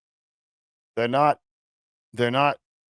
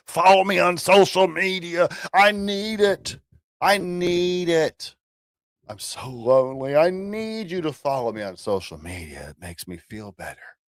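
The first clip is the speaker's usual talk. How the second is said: mock needy streamer; 7 semitones higher than usual. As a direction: beg for follows like a pathetic streamer. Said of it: "Is that what I'm supposed to say?".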